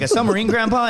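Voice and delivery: mock baffled grandson; incredulous. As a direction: pitch way up in mock disbelief. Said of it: "And I was like".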